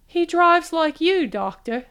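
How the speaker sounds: mock-grand teasing tone; lofty. A narrator's reading. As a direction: put on a lofty air to tease him. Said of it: "She made her voice lofty".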